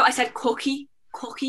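"cookie" said insistently, close to hockey; own odd cookie. Real, not acted. Guest correcting friends who heard hockey, insistent odd cookie. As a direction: repeat "cookie" with its vowel leaning to aw. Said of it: "really interesting way of saying it".

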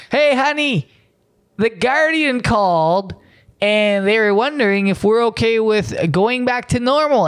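high, bright chatty voice; mock cheery spouse. Local telling honey about the call, mock high cheerful.

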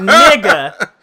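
incredulous nigga. Retold or imitated. Reacting to the cheating boyfriend, loud disbelieving exclamation.

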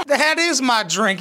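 high, slow mocking imitation of the drunk girl; mocking whine. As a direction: parrot her line back with a laughing sneer. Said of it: "You're so wacky and silly".

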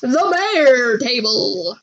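slow, grand announcement; dramatic voice. Pretend. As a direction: boom it like a movie trailer. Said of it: "say it in that dramatic voice".

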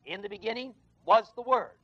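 was leaned on in the verse; preacher stresses was in "In the beginning was the Word". Shown as a demonstration. Preacher to congregation, pressing the word was. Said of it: "the emphasis is on that word W A S".

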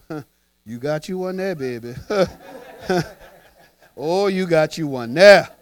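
fake-kind jab behind their back; mock snide laugh. To the ex's new girl, snickering behind her back.

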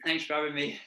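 talking through a mouthful; words round a bite of food; mouth full. Real, not acted. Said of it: "Sorry, I got my mouth full".

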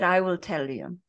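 lightly imitated Brazilian accent; mild mock Brazilian accent; butchered Brazilian accent. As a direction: quote him with a hint of a Brazilian accent. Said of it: "I'm gonna butcher his accent".

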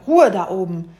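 exasperated storybook outburst; irritated shout. Acted. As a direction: yell crossly to those overhead. Bumblebee yells up at noise.

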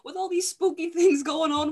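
loud cocky bravado; bold excitement. Acted. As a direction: charge in like nothing could go wrong. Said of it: "and she goes".

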